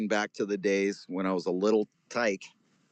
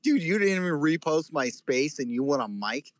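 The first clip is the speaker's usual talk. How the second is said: mock indignant; 6 semitones higher than usual. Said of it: "He's like".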